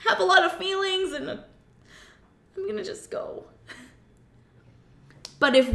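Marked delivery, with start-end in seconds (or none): 0.1-3.4 high, bewildered mock voice, fading to a breathy trail-off; a confused puppy backing away; men as puppies. Husband backing off confused, high and fading. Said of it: "And they're like".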